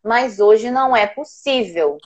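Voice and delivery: put-on calm parent soothing a child; measured, patient mother voice; gentle but firm. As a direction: reason tenderly with an upset child, unhurried. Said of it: "Falei assim".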